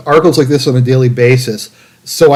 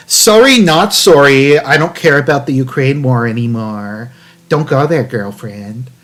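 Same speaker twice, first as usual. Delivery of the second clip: catty sass. Pretend. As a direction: give it a mock sassy girlfriend attitude. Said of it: "It's just very catty".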